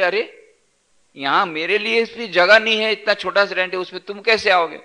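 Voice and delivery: cramped man protesting there is no room; protesting Arab. Acted.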